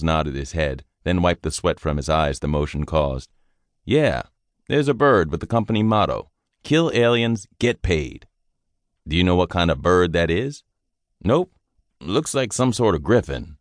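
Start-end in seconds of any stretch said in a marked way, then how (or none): 3.8-13.6 lightly voiced young soldier, a bit higher and bright-eyed; eager young private. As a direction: chatter on like a green recruit who likes easy duty. Private answers sergeant's questions.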